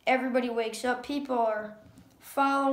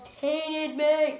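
mild retold yell, raised in pitch; mock yell; 4 semitones higher, 4 dB louder than usual. Reviewer retelling Dale's outburst at his captors, mock yell. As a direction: imitate his yell at moderate strength. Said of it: "And then he yells".

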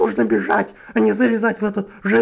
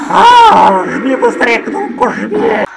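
panicked urging; 4 semitones higher, much slower than usual. Acted.

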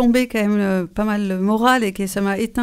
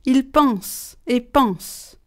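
lent et appuyé; much slower than usual. Shown as a demonstration. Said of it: "je vais déclamer un petit poème".

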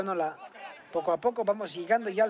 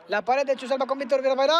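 fast excited play-by-play; 5 semitones higher, faster than usual. Real, not acted. Build-up to a goal.

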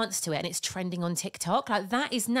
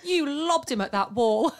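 daughter's voice; 7 semitones higher, 4 dB louder, slower than usual. Retold or imitated. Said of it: "She went".

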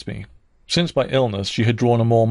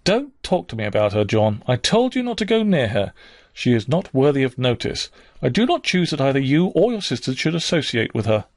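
harsh; 3 semitones higher than usual. Acted. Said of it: "He was stopped rather harshly".

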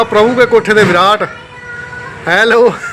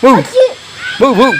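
dog bark imitation; 4 semitones higher than usual. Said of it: "Shiro ਕਿੱਦਾਂ ਕਰਦਾ ਸੀ?".

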